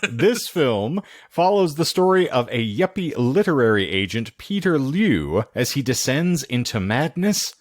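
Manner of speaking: measured movie-trailer style read; lightly theatrical film introduction; synopsis read. Acted. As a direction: present the plot with a showman's lilt.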